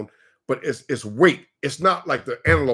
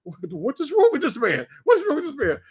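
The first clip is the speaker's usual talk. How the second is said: high-pitched mock Kenyan accent; 11 semitones higher than usual. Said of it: "the kid just looked at us".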